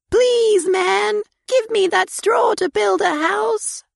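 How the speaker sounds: high pleading piglet; little pig voice. A narrator's reading. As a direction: ask sweetly in a high voice. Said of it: "He said to him".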